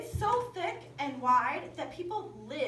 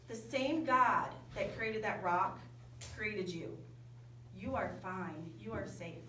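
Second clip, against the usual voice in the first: reassuring; 3 semitones lower than usual. Retold or imitated. Instructor reassures scared climber.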